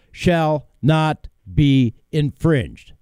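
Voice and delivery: slow, evenly spaced words; slow reading. Shown as a demonstration. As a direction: read each word slowly and separately. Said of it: "I'm going to read it slow".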